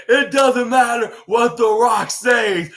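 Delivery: slow, drawn-out shouted taunt; imitating a cocky wrestler yelling back; mock heel retort. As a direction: shout it slowly at the champ. Retelling Austin Theory's retort.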